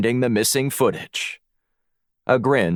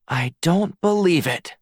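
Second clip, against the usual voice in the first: higher-pitched astonishment; stunned disbelief; 8 semitones higher than usual. A narrator's reading. Alex gasps at the closest match, stunned disbelief. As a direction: let the disbelief push the pitch up. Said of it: "She gasped as her eyes widened".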